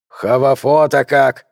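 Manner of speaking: lisping toothless mumble, slow; old prospector. A narrator's reading. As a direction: mumble it through bare gums. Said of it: "прошамкал Джастин".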